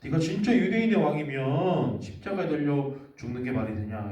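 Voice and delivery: a storyteller playing a sneering soldier; mocking soldier. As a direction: taunt him from below the cross. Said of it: "이렇게 비웃고 있는 거예요".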